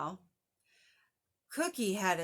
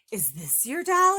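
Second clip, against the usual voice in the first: louder gruff question; lightly voiced grouch; 4 semitones higher, 8 dB louder than usual. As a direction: hold it up like a proud grouch. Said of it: "asked Oscar".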